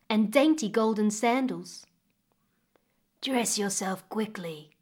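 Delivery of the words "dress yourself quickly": slow, soft, low crocodile rumble; low rumbling voice. Acted. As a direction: rumble it low like a great beast. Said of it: "the crocodile's low, rumbling voice".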